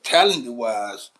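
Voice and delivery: talent-wise drawn out slowly; slow emphasis. Acted. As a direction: lean on talent-wise, stretching it. Repeating the key comparison.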